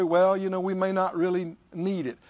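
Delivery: mock-pious, understated and even; super spiritual. Preacher imitating people acting super spiritual, mildly mock-pious. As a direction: put on a mildly over-spiritual resignation. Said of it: "act super spiritual and say".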